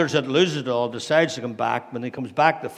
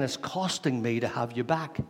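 angry. Acted. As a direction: act out the aggrieved elder brother, getting more heated. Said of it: "the elder brother's angry".

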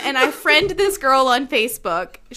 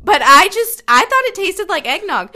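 voicing herself, half laughing and louder; nervous laughing quote; 5 dB louder than usual. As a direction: replay the awkward excuse through laughter. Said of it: "So I was like".

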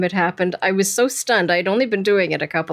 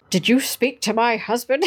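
imitated British accent. Angry wife questioning a phone operator, imitated British accent. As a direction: put on a fine British accent. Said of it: "in her very fine British accent".

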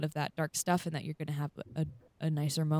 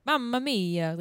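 mock Italian; 5 semitones higher, slower than usual. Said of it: "the high, like, over the top".

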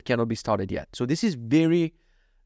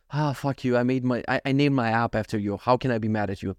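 giving in; 3 semitones lower than usual. Retold or imitated. Owner to dog with puppy eyes, low grudging fondness. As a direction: melt reluctantly, voice dropping low. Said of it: "look at me with puppy eyes".

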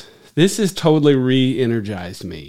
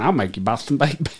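put-on East Texas accent; faster than usual. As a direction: say it like an East Texan. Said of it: "like an East Texan".

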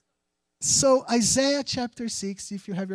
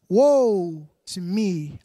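lament; 2 semitones lower, 5 dB louder, much slower than usual. Acted. Preacher reading Isaiah's lament.

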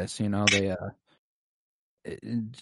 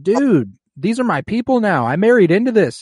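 mock indignant Daenerys; 10 semitones higher, 6 dB louder than usual. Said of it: "she's like".

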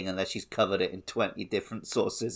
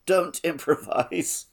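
muttered quote; 4 semitones higher, slower than usual. Retold or imitated. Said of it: "he mutters".

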